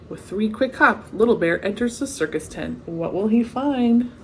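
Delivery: lively storybook read-aloud; story narration. A narrator's reading. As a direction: read it like a bedtime picture book. Reading the picture book aloud.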